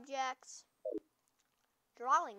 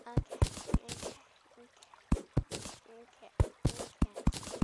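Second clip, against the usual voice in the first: freaking out; 2 semitones lower, faster than usual. Real, not acted. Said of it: "I'm just freaking out".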